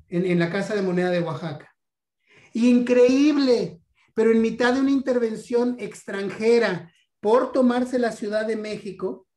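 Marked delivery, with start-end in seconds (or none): 2.5-6.9 amazed exclamation. Real, not acted. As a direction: stretch it out loudly, marveling at the fact. Exclama asombro ante el dato histórico. (exclamación de asombro, aguda y alargada)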